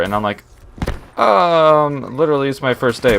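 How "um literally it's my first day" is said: taken-aback reply. Retold or imitated. Retelling a new clerk's answer to customer, taken aback. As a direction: stall in disbelief, then blurt it out.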